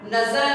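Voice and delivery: नजर with a buzzing middle z; nukta z pronunciation. Shown as a demonstration. Teacher giving an example, नजर said with z. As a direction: say नजर as nazar, z clearly voiced. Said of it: "देखिए बोलने वाला नजर".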